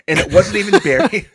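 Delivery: high, loud, laughing read; cracking up mid-sentence. Real, not acted. Laughs while rereading.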